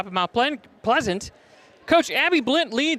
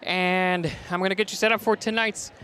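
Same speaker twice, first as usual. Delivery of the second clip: winded after running up stairs; out of breath, catching air; slower than usual. Real, not acted. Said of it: "I'm a little bit out of breath".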